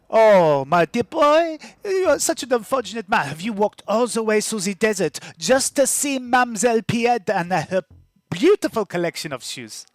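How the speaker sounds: a showy market trader sizing up a customer; shoe-selling woman. Acted. GM voices a shoe seller.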